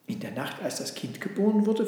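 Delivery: a touch of puzzled wonder. Acted. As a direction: ask in mild amazement. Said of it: "fragte die Kuh verwundert".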